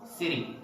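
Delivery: "City" said like "siddy"; American flapped T in "City"; T as a soft D. Shown as a demonstration. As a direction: tap the T in "City" into a D. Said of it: "they say city".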